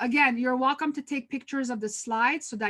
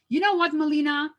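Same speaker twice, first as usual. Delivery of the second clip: imitating an irritated complaint, pitched up at first; upset staff member; 4 semitones higher, 3 dB louder than usual. Upset staff member confronting the manager, retold with annoyance. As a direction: act out a colleague's angry confrontation. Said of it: "you're really upset and angry".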